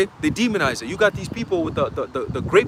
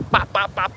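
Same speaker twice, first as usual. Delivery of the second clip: rapid-fire popping gun noises; imitated gunshots; slower than usual. Preacher acting out troops shooting people, imitated gunshots. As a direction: mimic shots with short, percussive pops.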